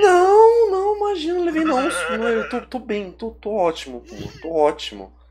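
high, shaky laughing denial, calming down; nervous denial. Real, not acted. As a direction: insist you're fine while still shaken. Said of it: "Você levou susto com esse finalzinho?".

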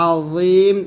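tongue tip to the upper teeth for "আযীম"; correct za. Shown as a demonstration. Teacher showing how আযীম should sound, slowly. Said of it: "এটার অর্থ ঠিক আছে".

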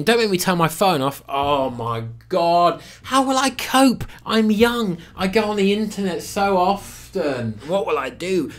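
mock the distress of a phone-addicted youngster; mock panicking youngster. Critic mimics young people losing their phones, mock despair. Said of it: "this cliche of young people go".

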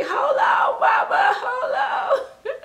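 put-on very high, loud squeaky baby voice with a laugh; baby's voice. Voicing the doll as it begs mama, in a very high squeaky shout. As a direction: play the doll calling out to mama. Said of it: "it's like".

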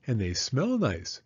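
plain, gentle mother's voice; a hint of Mama reassuring; Mama reassuring Penny, barely voiced; lightly voiced mother. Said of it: "said Mama".

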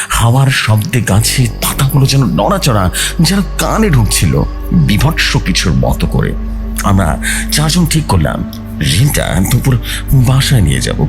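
plain reading voice

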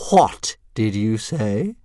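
slow, menacing dragon hiss. A narrator's reading. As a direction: draw out the question as a threat. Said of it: "hissed Fireworm".

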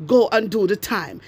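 lightly mimicked minister, standard English; a hint of Delroy Chuck's proper speech; quoting Delroy Chuck. Vlogger quoting Delroy Chuck mocking his words, light standard English voice. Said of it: "Delroy Chuck say".

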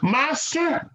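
high, slow, earnest pledge; Peter's eager vow. Retold or imitated. Peter vowing to follow Jesus to death, high earnest voice. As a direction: stretch each promise out like a vow. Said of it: "So Peter is saying".

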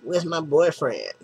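a hint of a hostage girl's plea. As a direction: lightly play the kidnapped girl's wail. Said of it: "girl in the chair's like".

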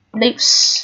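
"lips" with a voiceless s ending; pronunciation demo. Shown as a demonstration. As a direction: model "lips", letting the final s hiss. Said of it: "nó được phát âm là âm S".

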